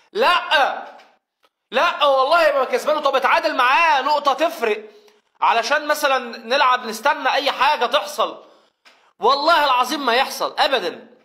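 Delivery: mock-stubborn refusal; stubborn team voiced. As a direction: play the team refusing point-blank.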